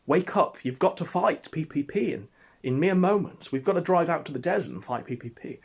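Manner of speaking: calling out to wake him. Retold or imitated. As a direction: shake him awake with the voice. Rousing a drunk Ralph.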